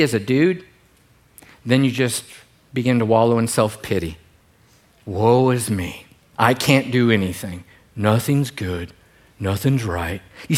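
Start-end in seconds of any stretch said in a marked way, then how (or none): 5.1-10.2 a hint of a gloomy donkey, lower and droning; Eeyore voice. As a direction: moan it out like a self-pitying Eeyore. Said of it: "Didn't that sound like Eeyore?".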